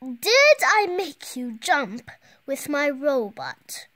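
gloating villain. Acted.

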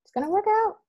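"It's gonna work out" jumped up high, insistent; emphatic mantra. Retold or imitated. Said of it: "every day just saying".

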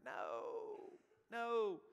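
sudden high loud no, no; loud preacher's no; emphatic no. Real, not acted. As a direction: cut the fear off hard. Preacher rejecting fear of coffin.

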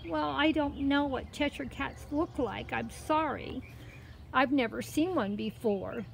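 put-on high, mild girl's voice; apologetic girl. Girl says sorry to the cat, apologetic.

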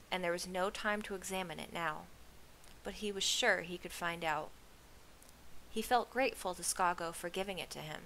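measured audiobook-style reading; story narration. A narrator's reading. Reader telling a novel to stream listeners, story narration. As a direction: read the story evenly, phrase by phrase.

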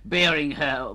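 slow, showy trailer delivery; mild trailer announcer voice; trailer hype. Acted. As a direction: pitch it like a movie trailer. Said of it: "Try and tell people".

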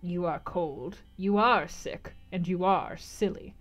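slow, measured pronouncement; deliberate gypsy verdict. Acted. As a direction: lay each verdict down deliberately. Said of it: "she said very deliberately".

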